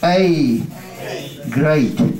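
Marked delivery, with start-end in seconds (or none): 1.5-2.1 "Great" with the A-E vowel, GRAYT; teacher contrasting the two spellings; model pronunciation. Shown as a demonstration. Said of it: "Khác nhau, rõ ràng không?".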